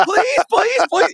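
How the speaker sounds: put-on high pleading kid voices; chorus of begging kids. The other kids all begging the player, high and pleading. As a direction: pile on the pleading like a crowd of kids.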